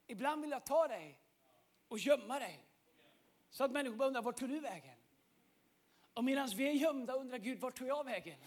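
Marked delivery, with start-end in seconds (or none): 0.1-4.9 much softer, intimate and hushed; soft voice of God. Acted. God tenderly speaking to the listener, soft and hushed. 7.6-8.4 much softer, intimate and hushed; soft voice of God. Acted. God tenderly speaking to the listener, soft and hushed. God wondering where we went.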